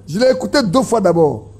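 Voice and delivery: usual speaking voice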